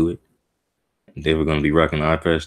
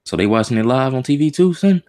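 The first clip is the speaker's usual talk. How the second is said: excited disbelief; 9 semitones higher, 4 dB louder than usual. Real, not acted. Shocked reaction to the manga.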